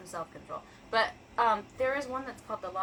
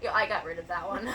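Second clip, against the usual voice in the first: laughing; 2 semitones lower, 4 dB louder than usual. Real, not acted. Laughing about a creepy book.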